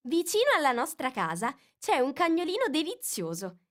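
high, eager chatter; enthusiastic Alice. A narrator's reading. Alice chatters with enthusiasm to the mouse. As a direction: gush about the dog.

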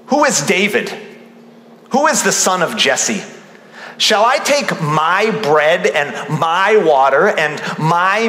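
lightly acted harsh, scornful retort; dismissive tone. Preacher reading Nabal's reply to David's request, mildly dismissive. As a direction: stress each "my" in a mildly scornful refusal. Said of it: "Do you sense his tone here?".

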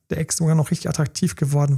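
usual speaking voice

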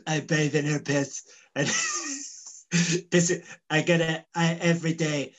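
lightly put-on impression of an American politician; Donald Trump. Boasting to co-host about a peach bath, light Trump impression. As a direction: do a comic presidential boast, halting at first. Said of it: "as if Donald Trump was in the room now".

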